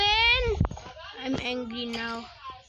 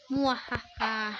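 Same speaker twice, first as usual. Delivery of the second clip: sneering panto villain; 3 semitones lower than usual. Pretend. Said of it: "I killed someone".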